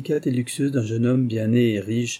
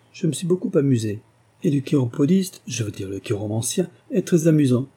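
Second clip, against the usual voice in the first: higher, fluttering gratitude; fussy old duchess; 4 semitones higher than usual. Acted. Duchess thanks Sir Thomas while leaving, flustered. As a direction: thank everyone in a flutter, pitched up.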